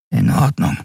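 husky, breathless, nearly unvoiced; choked voice. A narrator's reading. Nelen agrees to the captain, choked and hushed. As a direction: squeeze it out with a tight throat. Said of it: "mit belegter Stimme".

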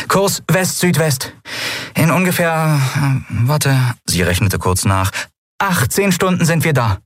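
rally them with a bright, quick voice; a young captain giving the order to go; captain Endriel. A narrator's reading. Endriel's voice, held.

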